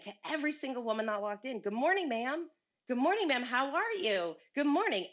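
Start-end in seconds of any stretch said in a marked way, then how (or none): 1.6-5.1 bright, higher repeated good mornings; cheery greeting. Retold or imitated. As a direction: greet every passer-by with sunny cheer. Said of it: "are you always this cheery".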